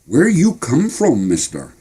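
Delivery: put-on high, eager little boy; curious boy voice. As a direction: ask it like a wide-eyed kid. Boy asks the soldier.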